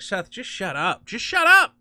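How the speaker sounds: exasperated shout. Retold or imitated. Telling Seth Rogen to shut up, building exasperated yell. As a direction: build to a fed-up outburst. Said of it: "one of these things where it's like".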